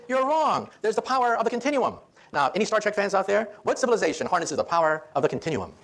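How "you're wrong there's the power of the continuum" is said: put-on insisting little boy. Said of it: "he insisted".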